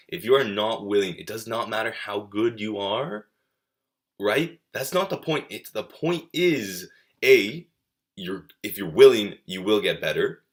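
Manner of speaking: getting heated, pushing the point home hard; fired up. Real, not acted. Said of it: "I got a little fired up".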